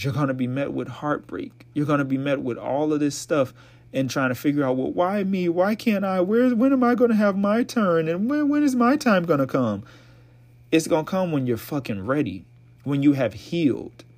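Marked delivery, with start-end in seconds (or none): 4.8-9.8 higher whiny mock complaint, pitched way up; hammed-up wailing why-me voice; mock whiny lament. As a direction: play the self-pitying single asking why me. Mocking the single lamenting.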